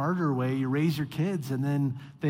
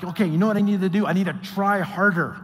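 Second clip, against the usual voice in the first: louder, revved-up self-pep talk; fired-up resolve; 4 dB louder than usual. Retold or imitated. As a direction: talk yourself into trying harder. Voicing someone doubling down.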